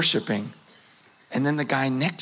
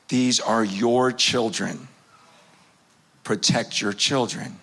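voice of God; 6 semitones lower than usual. Retold or imitated. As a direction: speak it gently as God would to a pastor. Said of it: "and God says".

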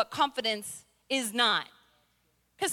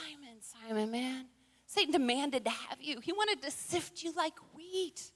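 soft, gentle and sincere; 8 dB quieter than usual. Pretend. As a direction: speak the name tenderly. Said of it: "Jesus was the real deal".

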